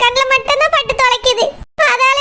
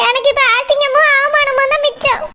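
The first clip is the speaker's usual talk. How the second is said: tearful. Acted. Humiliated daughter-in-law lamenting to Chellamma in tears. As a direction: let the shame break into tears.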